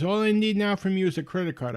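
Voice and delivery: put-on Indian-accented salesman. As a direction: imitate an upbeat caller with an Indian accent. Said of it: "he's got a very thick Indian accent".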